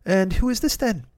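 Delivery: put-on a rough stab at an English accent; attempted English accent. Hero greets the waiting guest, attempted English accent. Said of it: "I can't do an English accent".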